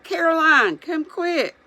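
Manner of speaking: Pa calling his wife to come fast, urgent. A narrator's reading. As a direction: summon her fast, alarmed. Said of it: "And then he called".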